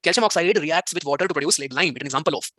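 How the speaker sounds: very slow, word-by-word question reading; dictation-style slow English read. Shown as a demonstration. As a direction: read the question aloud slowly. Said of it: "reads the quiz question".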